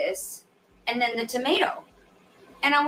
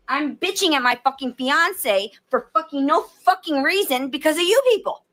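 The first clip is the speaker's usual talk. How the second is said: raised, heated venting at viewers; furious rant; 4 semitones higher than usual. Real, not acted. Venting at online critics, a real furious rant. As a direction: let it all out, fed up and shouting. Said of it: "and I'm fucking pissed".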